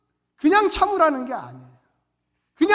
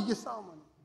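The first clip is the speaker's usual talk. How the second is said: 이게 싸움하는 거예요 said much softer, rising on 이게; soft repeat; 3 semitones lower, 14 dB quieter, much faster than usual. Shown as a demonstration. Preacher quietly repeats it to the congregation. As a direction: echo it quietly with 이게 lifted.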